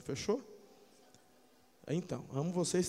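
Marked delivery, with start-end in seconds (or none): none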